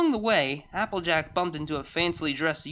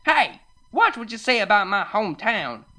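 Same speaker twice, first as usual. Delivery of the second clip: higher, louder indignant warning; angry shout; 6 semitones higher, 6 dB louder than usual. Acted. Farmer defending her hometown from the snob, shouting. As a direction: snap it loud and high. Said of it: "shouted Applejack".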